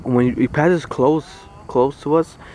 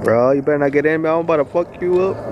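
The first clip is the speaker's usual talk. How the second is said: lightly voiced tough duck, raised pitch; mock threat in a duck's voice; threatening duck; 3 semitones higher, 3 dB louder than usual. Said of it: "This guy's like".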